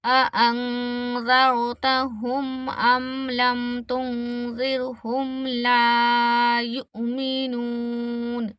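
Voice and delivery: slow, drawn-out tilawat; measured Quranic chant; Quran recitation. Shown as a demonstration. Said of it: "एक बार और repeat कर लेते हैं".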